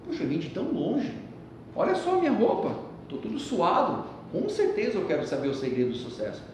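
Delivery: put-on a touch of a tired, eager boy. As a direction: sound like an impatient kid. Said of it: "o menino olhou pra ele e falou assim".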